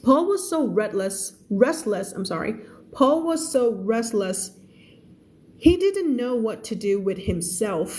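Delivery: slow, careful story reading for learners; measured teacher's narration; slow read-aloud. Acted. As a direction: read the story word by word, clearly.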